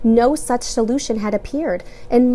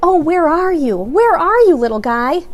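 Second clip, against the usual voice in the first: tearful calling; 8 semitones higher, 7 dB louder than usual. A narrator's reading. James crying, narrator repeats line.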